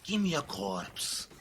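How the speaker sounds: low, slow, deep voiced quote; Cypher quote. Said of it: "as Cypher says".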